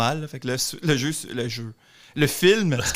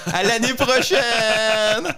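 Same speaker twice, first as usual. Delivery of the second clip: cheery farewell; 7 semitones higher, 3 dB louder, much slower than usual. Pretend. Acting a failed intruder.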